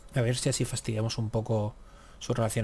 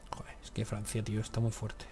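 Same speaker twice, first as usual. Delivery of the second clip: softer whispered curse; whispered frustration; 7 dB quieter than usual. Real, not acted. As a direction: hiss out joder in frustration. Frustrated at France. (maldición susurrada)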